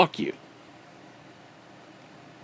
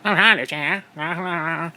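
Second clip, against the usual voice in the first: Hondish; slower than usual. Retold or imitated. Mimicking a streamer introducing himself, horrible mock accent. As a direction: exaggerate a badly faked accent. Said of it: "Fucking horrible accent".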